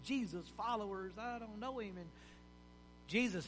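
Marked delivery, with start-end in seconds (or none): 0.0-2.0 a hint of a swearing Peter, mostly softer; mock cursing denial. Peter cursing to deny he knows Jesus, mildly hammed-up. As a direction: brush it off with a rough, mild curse. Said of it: "let's throw in a few cuss words".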